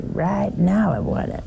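a touch of Southern drawl. Shown as a demonstration. Preacher showing the congregation a Southern-accented want. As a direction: lean into a Southern twang on now. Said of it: "when you say it southernly".

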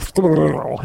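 put-on squirrel with a French accent. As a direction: mimic a Frenchman mangling squirrel. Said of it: "French people can't say squirrel".

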